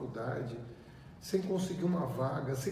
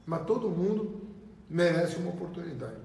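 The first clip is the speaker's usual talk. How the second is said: mouth full. Real, not acted. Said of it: "Tô comendo pipoca aqui com a Estela".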